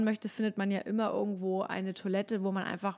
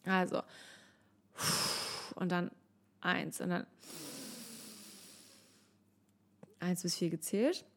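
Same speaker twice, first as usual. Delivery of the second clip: soft counting; 4 semitones lower, 6 dB quieter than usual. Shown as a demonstration. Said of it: "zählst in Gedanken von".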